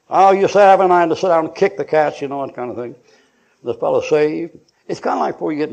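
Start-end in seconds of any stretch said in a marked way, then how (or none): 0.1-2.2 irritated husband. Acted. Acting grumbling husband at home.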